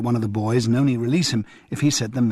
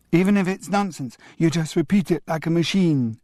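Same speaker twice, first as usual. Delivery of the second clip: put-on agreeing child echo; 6 semitones higher than usual. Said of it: "agreed Damien".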